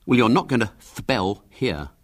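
"spell" said with a mocking lisp, "thpell"; mimicked lisp. A narrator's reading. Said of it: "mimicked William heartlessly".

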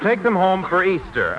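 emphatic resumed line. Acted. We better get back to the script.

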